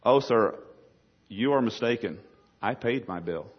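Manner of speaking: soft, measured priestly correction; priest's reply. Acted. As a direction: calmly correct the waiter, phrase by phrase. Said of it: "his priestly garb on".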